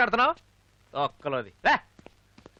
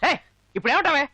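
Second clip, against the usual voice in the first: angry retort; 6 semitones higher, much faster than usual. Acted. Heated lovers' quarrel.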